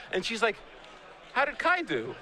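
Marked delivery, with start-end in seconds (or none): 1.3-2.1 higher mom voice through a laugh; mock-innocent mother; imitating his mom. Mom asking about Kai after her son won, higher voice.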